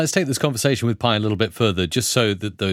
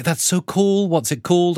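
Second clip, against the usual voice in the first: imitating Pi's enthusiasm; 8 semitones higher than usual. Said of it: "She was like".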